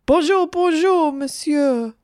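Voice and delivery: high, loud, gushing schoolgirl voice; trying hard to get his attention; eager girl's greeting. A narrator's reading. Margaret gushes hello to the teacher she adores, high and loud.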